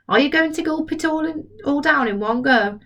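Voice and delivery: put-on a boy teasing gently; curious boy.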